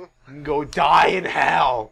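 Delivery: slow, drawn-out mock curse; mock damnation. Commentator damning the traitor, slow mock solemnity. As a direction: stretch the curse out dramatically.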